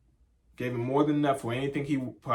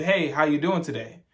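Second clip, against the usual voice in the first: second, louder friendly hello; louder greeting; 2 semitones higher, 4 dB louder than usual. Retold or imitated. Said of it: "And I said, I said".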